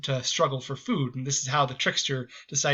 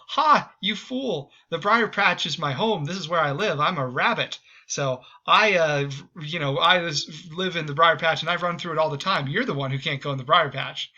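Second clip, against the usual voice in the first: triumphant rabbit; 2 semitones higher than usual. Retold or imitated. Escaped rabbit mocking the fox, triumphant. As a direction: crow over the fooled captor.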